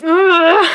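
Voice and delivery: loud exasperated ugh; frustrated groan. Real, not acted. Ranting about her, a loud fed-up groan.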